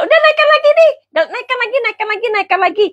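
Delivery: high whiny begging voice; hammed-up high fan begging; mock pleading fan. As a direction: plead like a fan who won't let go. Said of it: "kayak gini loh".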